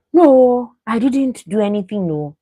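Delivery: high, loud protesting voice; mock innocent denial. Mimicking Kola playing innocent with the ladies. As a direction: deny it all in a squeaky innocent tone. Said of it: "and then acting like".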